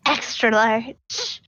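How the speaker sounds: deadpan demand. Acted. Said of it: "looks at the rest of them and says".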